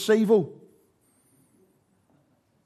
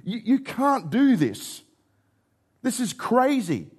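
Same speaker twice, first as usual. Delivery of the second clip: shocked disciples; 5 semitones higher than usual. Retold or imitated. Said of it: "offensive to the disciples' mindset".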